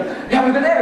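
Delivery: high, loud, peppy hello; cheery greeting. Pretend. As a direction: greet them all pumped up. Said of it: "The happy group goes".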